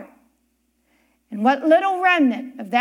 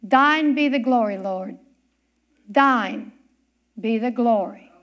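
tearful hush; 5 semitones lower than usual. Retold or imitated. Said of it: "tears were streaming down his eyes".

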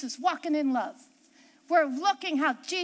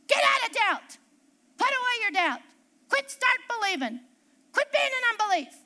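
raised-pitch preacher's commands, in separate bursts; mimicked exhortation; 4 semitones higher than usual. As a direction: imitate someone urging the doubters on.

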